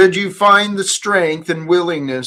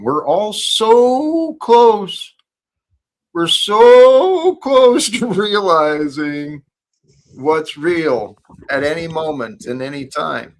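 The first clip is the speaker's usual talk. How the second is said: fervent; 3 semitones higher, 6 dB louder than usual. Real, not acted. Preaching fervently.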